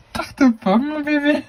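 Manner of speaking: put-on playful baby-directed "Tarte aux pommes, mon bébé"; silly intonation. Shown as a demonstration. Parent repeating the funny word to the baby, silly intonation. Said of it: "dit avec l'intonation".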